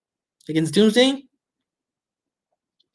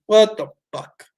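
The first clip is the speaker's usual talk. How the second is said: disbelief; 4 semitones higher, 3 dB louder than usual. Retold or imitated. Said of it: "I'm like".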